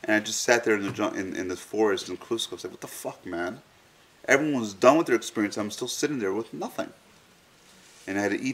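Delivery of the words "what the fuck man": breathless whispered what the fuck; whispered disbelief. Retold or imitated. To himself in the forest, an unvoiced whisper. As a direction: hush it out in stunned disbelief. Retold confusion in the jungle.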